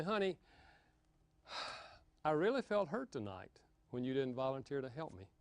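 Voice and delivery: soft, gentle, hurt but calm; quietly sharing a hurt, no blame; said softly. Shown as a demonstration. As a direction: tell him you're hurt without raising your voice. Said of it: "You can say anything you want to say softly".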